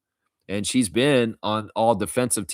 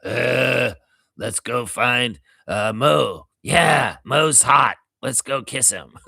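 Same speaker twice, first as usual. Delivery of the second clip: deep-set sister voice drawn out, louder on Mo; Selma and Patty voice; 5 dB louder, slower than usual. Retold or imitated. Streamer keeps up the Simpsons sisters bit about Mo, hammed-up. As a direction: swoon over Mo like a Simpsons sister. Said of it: "they're more deep".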